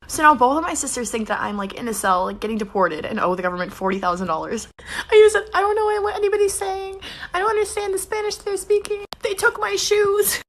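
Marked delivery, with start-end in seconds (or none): 4.8-10.4 high squeal of suppressed laughter; laughing while talking. Real, not acted. Prankster repeats fake jail plea to sister, cracking up. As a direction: fake plea falling apart into giggles.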